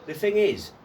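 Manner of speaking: high-pitched, laughing through the words. Real, not acted. Bursts out laughing mid-reply.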